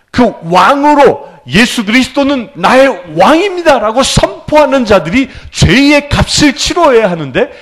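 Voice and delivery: emphatic pulpit fervor; forceful preaching. Real, not acted. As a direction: declare it like a public confession of faith. Preacher proclaims with raised voice.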